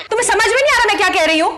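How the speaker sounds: high, rapid irritated retort; zirytowana. Acted. Quarrel over fee heats up.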